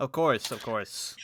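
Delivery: chuckling, laughing while speaking. Voicing the innkeeper who answers a player: laughing while speaking. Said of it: "laughs and says".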